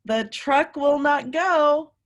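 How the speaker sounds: "The truck will not go" slow and loud, each word stressed; chorus line. Shown as a demonstration. Teacher saying the refrain with children, slow and emphatic. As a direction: lead the kids word by word. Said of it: "Say it with me".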